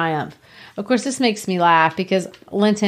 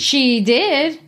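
put-on insistent girl; 6 semitones higher than usual. Children's quarrel, read aloud.

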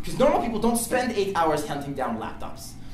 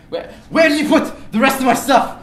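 high, loud pressing question; mild mock interrogation; insistent demand; 11 semitones higher, 10 dB louder than usual. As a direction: grill him for an answer. Demanding the thief answer.

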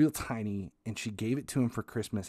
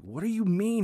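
much higher, louder baffled mom; 11 semitones higher, 5 dB louder than usual. Retold or imitated. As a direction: squeak it out in disbelief as mom. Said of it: "my mom's like".

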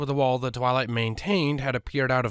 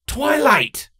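louder, cutting her off; stern raised call; sharp call; 7 dB louder than usual. Acted. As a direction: snap her name to stop her. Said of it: "broke her out of her moment".

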